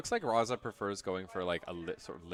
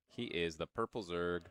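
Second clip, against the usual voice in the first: understated ring-announcer reveal; match announcer introduction; 2 semitones lower, 5 dB quieter, slower than usual. Acted.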